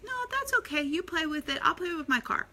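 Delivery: put-on high-pitched obliging little boy; Taylor. Parent imitating a young son letting his cousin keep it, high sweet child voice. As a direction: mimic a small child generously giving in. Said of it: "And Taylor's like".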